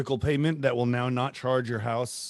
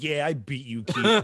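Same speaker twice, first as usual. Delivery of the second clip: laughing mock gloat at the wall; 2 semitones higher, slower than usual. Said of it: "you're like".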